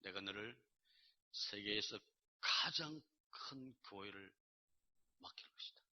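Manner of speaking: low, hushed and deliberate; quiet, weighty divine pronouncement; voice of God. Retold or imitated. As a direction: speak a solemn promise slowly, fading almost to nothing. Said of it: "하나님이 음성으로 말씀하셨어요".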